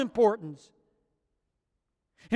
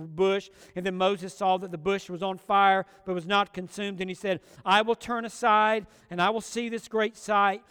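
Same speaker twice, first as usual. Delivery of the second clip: scripture reading; 3 semitones lower than usual. Acted. Reads scripture passage aloud.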